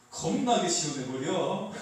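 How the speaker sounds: slow, drawn-out Jeolla accent; lazy Jeolla-style delivery; Jeolla dialect. Shown as a demonstration. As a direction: stretch it out playfully in Jeolla dialect. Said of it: "전라도는 이렇게 하겠죠".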